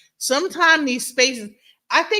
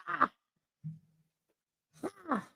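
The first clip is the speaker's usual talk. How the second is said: short effortful "ah"; strained exhale; 7 semitones higher, 13 dB quieter than usual. Shown as a demonstration. Veteran showing how to shove feelings down, strained. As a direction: push out a sound as if forcing something down. Demonstrates shoving emotion down.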